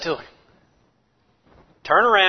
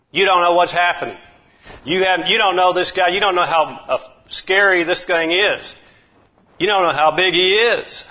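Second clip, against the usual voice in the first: scolding brother; 3 semitones higher, 3 dB louder than usual. Acted. Brother scolding David in sermon.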